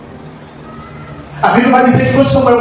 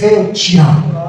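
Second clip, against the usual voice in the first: God's loving voice; 4 semitones lower, slower than usual. Acted. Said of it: "E aí vem ele e diz".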